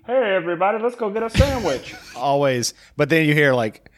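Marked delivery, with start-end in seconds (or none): 0.1-1.9 put-on high dubbed-in voice; generic dubbing voice. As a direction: imitate the same dub actor every time, pitched way up. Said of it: "same guy's been doing A D R for years".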